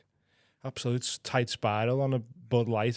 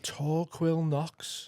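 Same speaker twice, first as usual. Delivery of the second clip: very slow, higher echo of a name; mock incredulous; 4 semitones higher, 4 dB quieter, much slower than usual. Co-host repeating a schoolfriend's odd name, drawn-out mockery. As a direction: stretch the name out in put-on disbelief.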